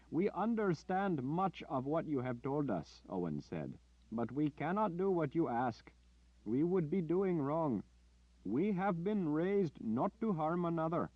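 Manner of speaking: high, pleading and firm; Owen, gentle refusal. Acted.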